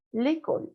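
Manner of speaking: "L'école" with a plain Spanish-like E; normal closed E. Shown as a demonstration. Teacher contrasts it with bière, "L'école" with normal E. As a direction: say "L'école" as lay-KOL, E not opened. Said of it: "Es como una E normal".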